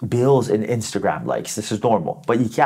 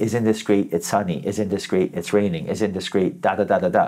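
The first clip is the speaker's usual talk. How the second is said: attached cheerleading; 3 semitones lower than usual. Shown as a demonstration. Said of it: "No, just".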